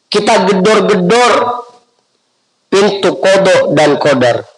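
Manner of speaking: nada tinggi berapi-api; seruan dakwah. Acted. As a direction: serukan ajakan dengan nada lebih tinggi. (seruan dakwah bernada tinggi)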